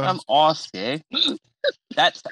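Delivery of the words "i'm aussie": slow put-on Aussie accent; Australian accent. Shown as a demonstration. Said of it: "I do that accent too".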